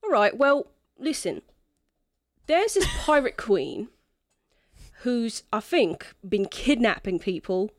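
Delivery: put-on lightly accented drunken quest-giver; tipsy non-player character. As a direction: lay out the job as a mildly tipsy rogue. Game master voices Echo.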